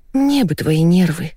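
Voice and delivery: slow, stretched-out drawl. Acted. Wife envying husband's calm, slow drawl. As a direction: draw the words out wearily. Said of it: "протянула Наташа".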